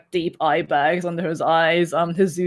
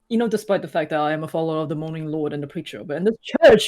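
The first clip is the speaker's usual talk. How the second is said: lightly voiced earnest priest, rising emphasis; a hint of a pious old priest. GM voices priest Father Lucian.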